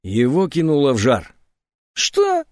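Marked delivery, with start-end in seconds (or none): 1.9-2.4 tiny squeak, much higher; startled high squeak; mouse-like squeak. A narrator's reading. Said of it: "раздался тихий взвизг, будто пискнула мышь".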